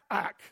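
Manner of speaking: short clipped "Ak" with a hard k; Hebrew word ak. Shown as a demonstration. Pastor teaching the congregation Hebrew, crisp "Ak". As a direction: say "Ak" crisply as one syllable. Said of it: "Yeah, like cock".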